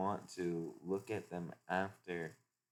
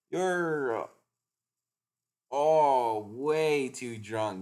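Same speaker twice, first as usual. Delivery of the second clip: Nami scolding; 5 semitones higher, 8 dB louder, much slower than usual. Acted. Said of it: "Nami says".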